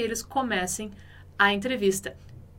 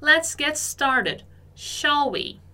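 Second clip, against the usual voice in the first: slow model reading; 3 semitones higher, much slower than usual. Shown as a demonstration. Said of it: "por isso ela falou".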